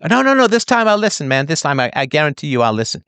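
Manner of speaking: pleading caller. Retold or imitated. Mimics a pleading listener.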